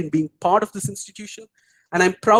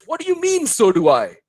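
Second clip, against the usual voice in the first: put-on Australian accent; 8 semitones higher than usual. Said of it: "And Josh says".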